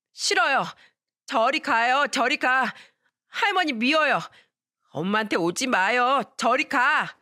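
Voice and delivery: 높은 아이 목소리로 울먹이며 거부; 할머니를 밀어내는 어린 아이처럼; upset little boy. Acted. Boy refusing grandmother. (할머니를 거부하는 어린 아들, 높고 다급한 목소리)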